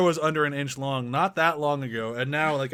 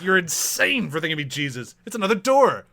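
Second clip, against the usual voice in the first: offended; 3 semitones higher, 5 dB louder than usual. Retold or imitated. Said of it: "he's so offended".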